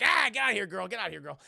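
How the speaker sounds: Chris Tucker. Retold or imitated. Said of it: "and he starts like".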